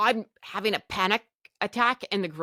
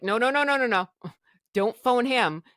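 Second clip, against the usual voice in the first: higher, quick string of protests; alarmed refusal; 4 semitones higher than usual. Retold or imitated. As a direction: urgently plead against it, pitch up. Acted panicked refusal to phone husband.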